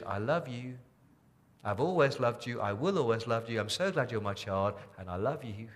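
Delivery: put-on like a lullaby to a child; tender love song. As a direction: sing God's love over them gently. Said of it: "God's love song to you is".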